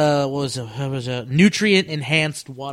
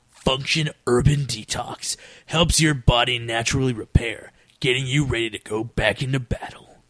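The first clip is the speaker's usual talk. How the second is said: dramatic trailer narrator read; a lightly done movie trailer announcer. Acted. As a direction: pitch it like a blockbuster trailer. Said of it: "I'll do like movie announcer voice".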